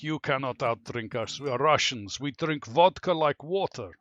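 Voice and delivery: loud, cocky sailor bragging; boastful Russian sailors. Retold or imitated. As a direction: boom it out like a proud Russian drinker. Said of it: "we had these Russian sailors come in".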